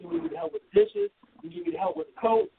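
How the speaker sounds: high-pitched eager guest; eager helper voice. Pretend. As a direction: play the keen guest offering help. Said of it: "what can I do to help".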